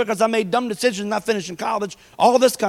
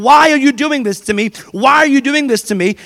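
whiny complaint; 4 semitones higher, 5 dB louder than usual. Retold or imitated. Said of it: "instead of saying".

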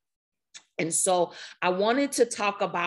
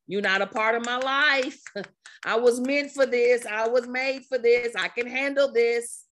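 firm self-affirmation; 4 semitones higher than usual. Acted. Acted firm self-affirmation against fear.

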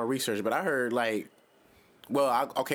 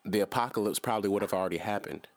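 cult leader voice. Acted. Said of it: "Didn't I sound like a cult leader just then?".

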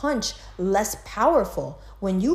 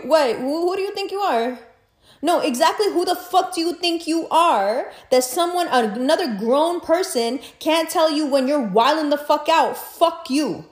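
incredulous rant; 6 semitones higher than usual. Real, not acted. Ranting at the girl in outraged disbelief.

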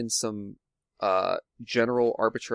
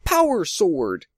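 high, drawn-out call to arms; mock battle cry; 9 semitones higher, 4 dB louder, slower than usual. Podcaster imitating Jason calling his sword, mock yell. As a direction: call it out like a hero summoning a weapon. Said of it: "just yells out".

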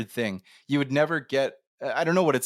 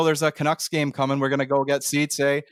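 thick Canadian hockey-fan accent; 2 semitones higher than usual. Shown as a demonstration. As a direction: turn on a Vancouver Canadian accent. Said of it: "I can always turn on".

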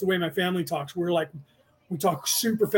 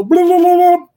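mocking blah blah; 10 semitones higher, 13 dB louder than usual. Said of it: "he would go".

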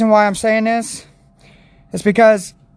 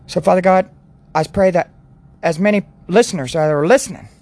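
prayer. Acted. Continues the prayer.

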